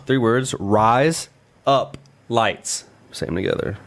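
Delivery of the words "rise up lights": each word said slowly; slow deliberate. Shown as a demonstration. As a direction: draw out rise up lights slowly. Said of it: "You just gotta say these three".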